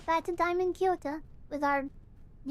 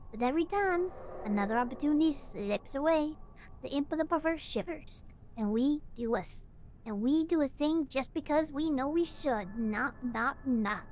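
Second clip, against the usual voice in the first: a slightly lower, measured reading voice; lightly voiced game narrator; 4 semitones lower than usual. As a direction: read the eerie speech calmly, a touch below your own voice. Player reads a game figure's lines.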